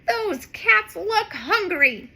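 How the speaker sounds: concerned hero cat; Streaky voice. Acted. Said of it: "says Streaky".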